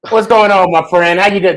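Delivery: put-on a weak, half-hearted Australian accent; bad Australian accent. Host greets the Aussie guest in a bad Australian accent. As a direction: try an Aussie accent and barely land it. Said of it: "That was the worst, uh, Australian accent".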